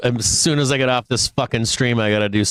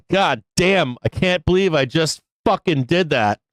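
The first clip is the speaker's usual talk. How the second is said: higher-pitched exasperated cursing; pitched-up, frustrated self-reproach; angry disbelief; 6 semitones higher than usual. Real, not acted. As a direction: curse your own mistake in disbelief. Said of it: "I'm pretty angry right now".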